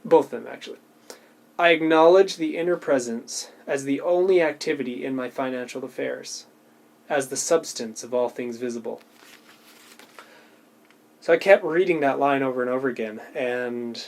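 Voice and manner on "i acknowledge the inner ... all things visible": rereading aloud. Shown as a demonstration. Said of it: "I was rereading this last sentence".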